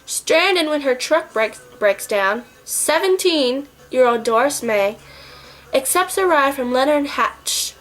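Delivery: measured, dramatic blurb reading; synopsis read. Acted. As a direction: read aloud like a movie blurb. Reads out the movie's synopsis.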